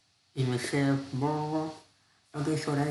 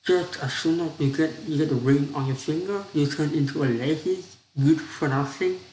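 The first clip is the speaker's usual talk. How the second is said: louder, snapping at his wife; snappy scolding; 4 dB louder than usual. Acted. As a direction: snap at her, fed up. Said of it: "snapped the husband".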